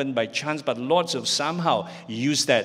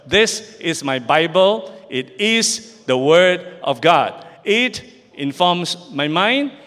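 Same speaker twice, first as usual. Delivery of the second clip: loud, slow congregational recitation; reading aloud in unison; 4 dB louder, slower than usual. Real, not acted. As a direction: declare it together, slow and loud. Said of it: "repeat together with me".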